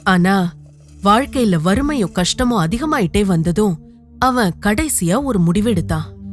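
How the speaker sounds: usual speaking voice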